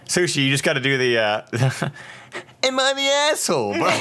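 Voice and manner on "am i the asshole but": laughing. Acted. Mock title voice laughing.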